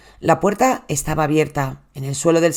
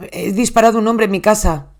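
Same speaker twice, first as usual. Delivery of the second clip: panicked plea; 4 semitones higher than usual. Retold or imitated. Husband begging the 911 operator, frantic. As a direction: voice raised, frantic and pleading.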